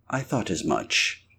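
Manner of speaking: quiet aside to herself. A narrator's reading. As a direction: mutter it under your breath. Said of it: "said Missus Hall to herself".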